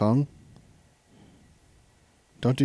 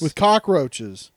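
slow ominous; 2 semitones lower, slower than usual. Pretend.

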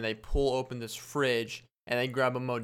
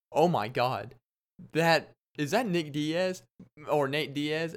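put-on starstruck preteen girl; 2 semitones higher, slower than usual. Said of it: "I acted like a little preteen girl".

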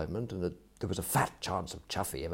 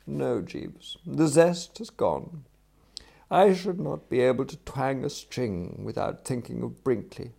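lightly voiced gentleman, mock-tragic and higher; solemn renunciation; 4 semitones higher, 4 dB louder than usual. Employer tells valet the zest has gone, solemn and regretful. Voices Wooster renouncing his banjolele.

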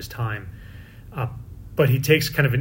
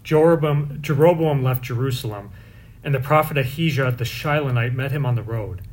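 measured, solemn scripture proclamation; liturgical reading. Acted. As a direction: proclaim it like a lector at Mass. Proclaims the Mass readings aloud.

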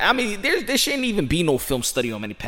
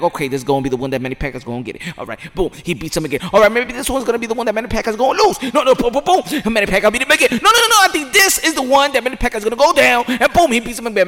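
rising excited voice, louder, fast; mock disbelief; 6 semitones higher, 3 dB louder, faster than usual. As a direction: act out the surprised fan growing louder. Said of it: "and you'd be like".

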